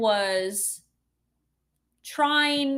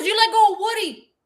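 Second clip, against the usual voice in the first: retold yell; 9 semitones higher, 5 dB louder than usual. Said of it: "And she goes".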